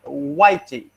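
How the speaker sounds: Portuguese-accented white, extra EE on the end. Shown as a demonstration. Teacher showing how Portuguese speakers say white, Portuguese accent. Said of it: "have the tendency to pronounce the English word white".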